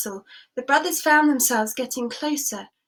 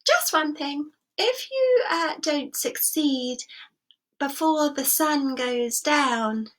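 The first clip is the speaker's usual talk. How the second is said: ominous king; 3 semitones higher, slower than usual. Acted. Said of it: "the king added".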